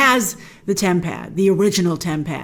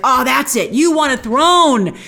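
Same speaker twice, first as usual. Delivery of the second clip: louder, drawn-out retold accusation; mock accusation; 3 semitones higher, 4 dB louder, slower than usual. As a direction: imitate an indignant accuser, leaning on the words. Voices Sylvie's accusation in quarrel.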